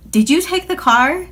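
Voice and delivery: retold accusation. Mom confronting daughter.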